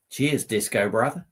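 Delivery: lightly voiced Australian accent; Aussie accent. Streamer reading a viewer's message, light Australian accent. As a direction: read it with a touch of Aussie. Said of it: "I love whacking into a bit of Aussie accent".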